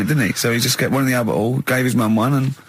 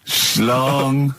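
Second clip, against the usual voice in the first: the word Schlong intoned like a news chime; mock news bong. Host marking each headline with a spoken bong. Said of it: "I do a bong".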